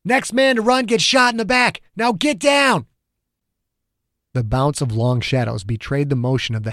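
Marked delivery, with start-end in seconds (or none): 0.0-2.9 shouted order. A narrator's reading. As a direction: yell it so the fleeing men freeze. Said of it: "Ogden shouted".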